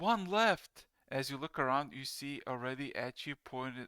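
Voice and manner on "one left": very loud, high, booming shout. Narrating a battle scene to the listener, an unseen voice calls out: shout. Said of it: "and then you just hear a shout".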